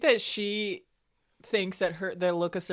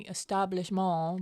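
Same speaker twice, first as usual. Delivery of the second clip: put-on French accent; 4 dB quieter than usual. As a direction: echo "establishment" with a mock-French ending, "-mawn". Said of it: "he says it with a French accent".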